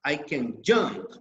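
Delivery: "jump" carries the main stress. Shown as a demonstration. Teacher shows students the verb stressed in "I can jump", stress on jump. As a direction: lean on "jump", not "can". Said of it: "we say it in the verb".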